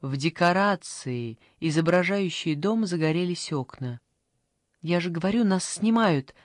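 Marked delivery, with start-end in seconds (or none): 4.8-6.3 glad. Acted. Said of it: "обрадовалась бабушка".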